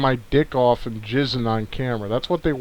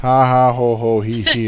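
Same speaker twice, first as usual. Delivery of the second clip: spelt-out sarcastic ha ha; deadpan mock laughter; fake laugh; 3 semitones lower than usual. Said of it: "I forgot to laugh".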